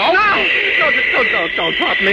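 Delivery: high, stammering terror; panicked begging. Acted. Doctor threatened with a fall from the sky, panicked begging. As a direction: plead frantically, high-pitched, tripping over the words.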